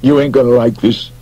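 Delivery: high pleading confession; plaintive. Acted. McGarry confesses to Beasley, plaintive. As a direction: beg him to understand. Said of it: "he said plaintively".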